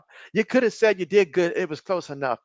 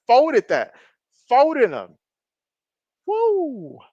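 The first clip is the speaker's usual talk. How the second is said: louder, higher calls at a big hit; excited shout; 5 semitones higher, 4 dB louder, much slower than usual. Real, not acted. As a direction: cheer the hit. Hard hit on live play.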